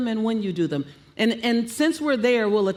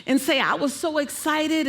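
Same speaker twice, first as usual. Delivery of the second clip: going up; 5 semitones higher than usual. Shown as a demonstration. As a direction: pitch lifted high on an excited example. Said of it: "that's when you can go up".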